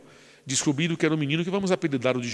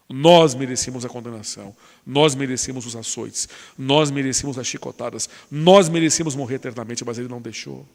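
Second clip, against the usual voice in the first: louder, insistent sermon build; preaching; 4 dB louder than usual. Acted. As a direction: hammer each line at the congregation.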